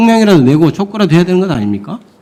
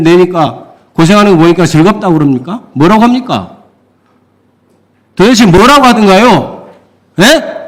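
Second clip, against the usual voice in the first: raised voice, incredulous pressing; exasperated demand; 2 semitones higher than usual. Real, not acted. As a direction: push for an answer, fed up. Lawmaker berating official at hearing.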